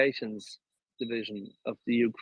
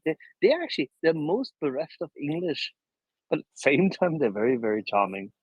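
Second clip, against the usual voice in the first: put-on Scottish Highland accent; 3 semitones higher than usual. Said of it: "they always speak like this".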